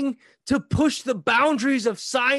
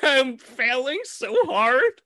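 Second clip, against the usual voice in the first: laughing; 2 semitones higher, slower than usual. Real, not acted. Laughing admission.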